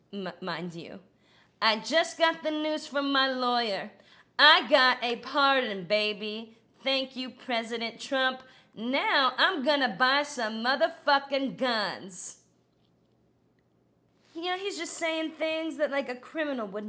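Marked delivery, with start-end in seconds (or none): 1.6-12.4 all caps excitement. Retold or imitated. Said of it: "in all caps".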